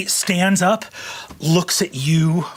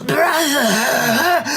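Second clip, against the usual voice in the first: high, quavering cry; anguished high wail, voice quavering; 9 semitones higher than usual. Acted. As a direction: cry out with a wavering, raised voice. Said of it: "You hear a quavering voice".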